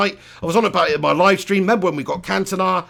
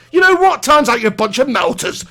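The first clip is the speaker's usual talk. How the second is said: taunting; 3 semitones higher, 4 dB louder than usual. Pretend. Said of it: "on social media and say".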